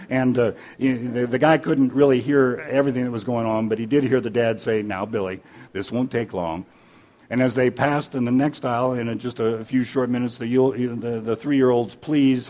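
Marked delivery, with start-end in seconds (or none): 4.8-6.6 quietly reassuring, slightly lowered; soothe, keeping your cool; calm dad. Acted. Dad soothes himself in store.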